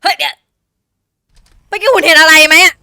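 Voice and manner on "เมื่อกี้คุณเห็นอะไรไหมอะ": surprised. Real, not acted. Startled by something on screen.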